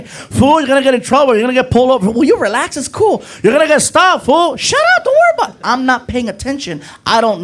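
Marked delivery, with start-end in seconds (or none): 0.0-2.1 loud, high warning yell; yelling friend. Retold or imitated. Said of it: "Felipe is yelling at me". 2.1-5.5 annoyed shouting. Retold or imitated. Arguing with friend in car.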